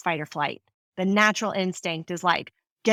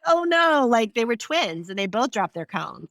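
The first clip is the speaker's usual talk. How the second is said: mock panic; 3 semitones higher than usual. Employee with a one-cone limit meets dropping twins, mock panic. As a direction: play a flustered employee caught out by a lifeline rule.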